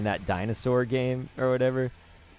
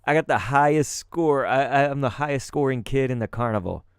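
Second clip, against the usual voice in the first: louder and higher, bragging loudly; boasting to the VR carnival crowd, loud and cocky; boastful kid brag; 4 semitones higher, 5 dB louder than usual. Retold or imitated. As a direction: crow about the high score like a kid. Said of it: "Like, I said".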